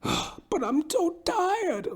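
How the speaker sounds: high, very slow whimper; whiny barber. Retold or imitated. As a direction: drag it out, feeling sorry for himself. Barber whine.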